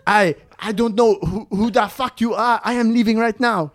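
half-hearted panic, insisting on leaving; mock freaking out. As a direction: act out a man freaking out, in a put-on accent. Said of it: "Alex starts freaking out".

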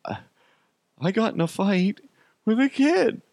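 put-on high-pitched whimpering little boy; hammed-up upset kid voice; mock crying kid. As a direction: confess like a tearful child to mom. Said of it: "I get home and I'm crying".

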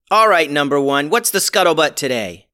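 upbeat, high captain; eager space captain; bright captain voice. Acted. Captain character voice.

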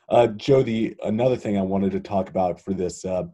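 hoarse, gravelly voice from laryngitis. Real, not acted. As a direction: talk through a rough gravelly throat. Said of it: "my gravelly sounding voice".

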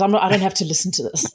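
quick defensive retort, mildly acted; mock a defensive partner refusing to listen. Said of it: "gets defensive and goes".

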